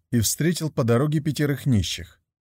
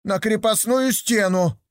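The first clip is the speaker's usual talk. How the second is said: медленно и высоко, упрямо настаивая; стой на своём; 10 semitones higher than usual. Acted. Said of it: "упирался пятый". (пятый слепой упрямо спорит)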